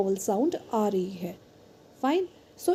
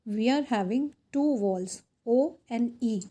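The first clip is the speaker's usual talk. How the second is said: unhurried explaining voice; measured classroom delivery; slow teacher reading; much slower than usual. Acted. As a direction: spell it out slowly for the class.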